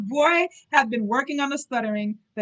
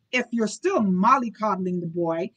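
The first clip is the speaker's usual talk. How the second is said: a touch louder, a lord talking down; lightly voiced haughty duke cutting in from the door; mild imperious bark at the nurse; 4 dB louder than usual. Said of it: "came in an imperious voice".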